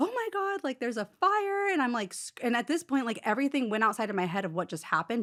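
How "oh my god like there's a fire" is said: very high, frantic, panicked screaming. Retelling finding your whole closet in flames; retelling a panicked scream. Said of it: "And I start screaming".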